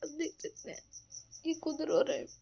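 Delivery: soft hushed aside to the viewers. Real, not acted. Pointing out her crying husband to viewers, hushed. Whispering to camera beside husband.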